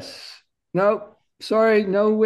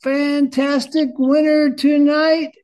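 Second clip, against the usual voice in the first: bright host announcement, a touch higher; game show host; 5 semitones higher, 4 dB louder than usual. Pretend. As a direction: announce the winner like a quiz host.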